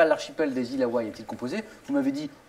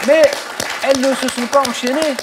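emphatic announcement; 6 semitones higher, 7 dB louder than usual. Acted. Host announces score emphatically.

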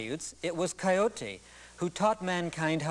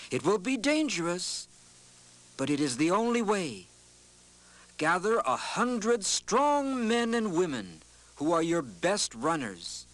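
wise Coyote; 3 semitones higher than usual. Acted. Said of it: "and then he said".

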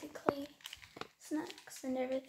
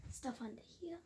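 whisper; 5 dB quieter than usual. Real, not acted. Filming while family sleeps.

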